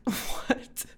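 incredulous, starting on a whispery what; mock disbelief at the idea; baffled retold reply. Baffled reply to sister about the cat's name, mock incredulous.

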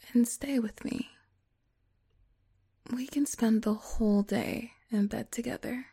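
soothing whisper. Acted.

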